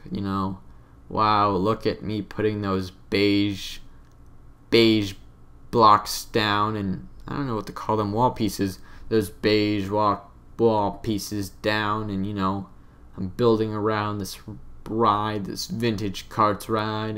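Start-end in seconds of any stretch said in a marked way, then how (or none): 1.1-6.7 slow, mock-wholesome commentary voice; old enthusiastic self. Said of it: "This is how I talked". 9.1-12.1 slow, mock-wholesome commentary voice; old enthusiastic self. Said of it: "This is how I talked". 13.2-17.2 slow, mock-wholesome commentary voice; old enthusiastic self. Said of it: "This is how I talked".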